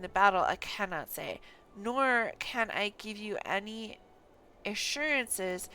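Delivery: stern lord voice. Acted. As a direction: speak as a lord explaining a grim situation. Game NPC dialogue read aloud.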